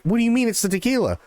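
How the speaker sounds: put-on baffled bartender presses the drunk; incredulous Joe. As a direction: fire it back in disbelief.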